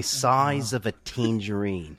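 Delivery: slow Australian accent demo. Shown as a demonstration. Host shows friends the trick phrase, Australian accent. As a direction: draw out the words in an Australian accent. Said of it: "a way to get to the Australian accent".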